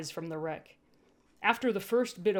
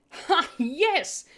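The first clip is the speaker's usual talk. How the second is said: cheering; 8 semitones higher, 5 dB louder than usual. A narrator's reading. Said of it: "I cheered".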